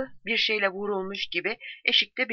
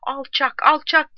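high, raised cry of abuse; angry shout; 8 semitones higher, 5 dB louder, slower than usual. A narrator's reading. Soldier yelling abuse at the enemy, angry shout. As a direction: shout the insult, pitched well up. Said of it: "diye bağırdı Matthew".

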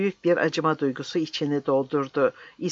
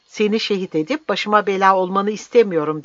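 moderately raised, higher exasperated cry; loud, impatient outburst; shouting; 5 semitones higher, 5 dB louder than usual. Acted. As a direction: shout in exasperation at the old man. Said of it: "diye haykırdı".

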